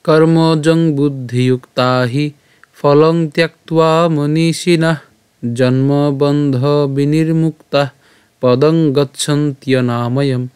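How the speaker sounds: slow, measured Sanskrit shloka recital; verse recitation. Shown as a demonstration. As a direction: recite slowly phrase by phrase, holding long vowels. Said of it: "আমি আবার বলছি". (ধীরে টেনে শ্লোক পাঠ)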